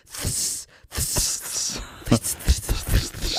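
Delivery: repeated unvoiced "ths" drills; practising the s sound. Shown as a demonstration. Practising the final s in the car, repeated unvoiced "ths". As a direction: hiss "ths" over and over. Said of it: "ten minutes just going".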